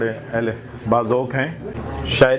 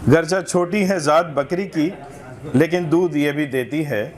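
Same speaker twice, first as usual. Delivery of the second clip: measured literary reading aloud; humorous essay recitation; 3 semitones higher than usual. Acted. Reader presenting a satirical essay to a literary gathering, recitation. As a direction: read it out for a listening audience.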